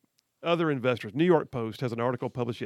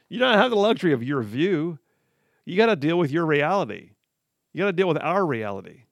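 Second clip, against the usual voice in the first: louder, lecturing the president; scolding; 4 dB louder than usual. Retold or imitated. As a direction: tell him off firmly. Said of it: "So what he's saying is".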